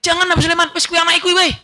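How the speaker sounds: put-on a mother crying out to save her baby; desperate cry. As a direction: beg frantically, give the child away. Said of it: "langsung teriak".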